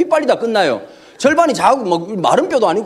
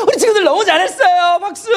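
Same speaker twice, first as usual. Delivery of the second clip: mock Sunday school teacher, higher and bright; cheery teacher; 7 semitones higher than usual. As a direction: praise the little kids like a kindergarten teacher. Sunday school teacher praising kids.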